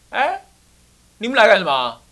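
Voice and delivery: high, loud gruff challenge; old man shouting at trespassers; fierce old man. Acted. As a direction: bark at intruders like a cranky elder. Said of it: "这个老先生怎么那么凶啊".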